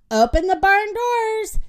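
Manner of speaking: high, loud call to open up; excited yell. A narrator's reading. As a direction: yell it out across the barn. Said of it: "Minnie yelled".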